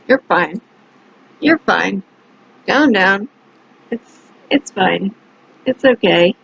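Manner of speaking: low, halting self-talk, repeated reassurances; self-soothing. Acted. Woman calming herself before she answers him, self-soothing. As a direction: talk yourself down in small, low phrases.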